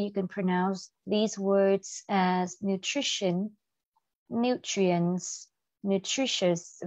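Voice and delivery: slow, separate model of nutrition, nutrients, nutritious; model pronunciation. Shown as a demonstration. Teacher has class repeat after her, slow model pronunciation of nutrition, nutrients, nutritious. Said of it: "Repeat after me".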